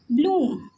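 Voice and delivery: ब्लूम with a held oo; long vowel. Shown as a demonstration. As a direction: draw out the oo in ब्लूम. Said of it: "ये हो गया long sound".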